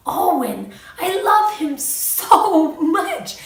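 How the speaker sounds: slow, lightly voiced little boy, gushing; imitating toddler. Mother voicing her toddler naming his friend, lightly gushing. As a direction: drawl it out like a smitten toddler. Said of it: "He said".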